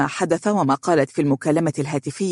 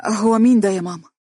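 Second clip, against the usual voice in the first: higher-pitched, puzzled question; surprised; 4 semitones higher, 3 dB louder than usual. A narrator's reading. Daughter questioning her mother, surprised. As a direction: ask mum in quick surprise. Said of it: "متعجبة وقالت بسرعة".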